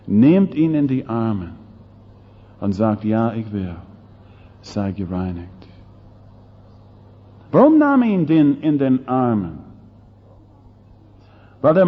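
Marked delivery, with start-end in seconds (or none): 3.0-5.5 soft, gentle assurance as Jesus; a quiet, tender yes to the leper. Acted. Jesus gently reassures the leper, soft and tender.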